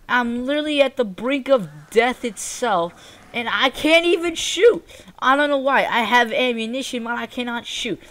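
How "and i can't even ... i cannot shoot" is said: Texan-sounding. Real, not acted. Gamer unable to shoot, sounding like a Texan. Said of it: "I'm now sounding like a Texan".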